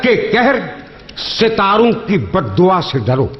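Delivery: measured, lingering verse delivery; poetry recitation. Acted. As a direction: recite each line slowly for effect. Closing quatrain recital.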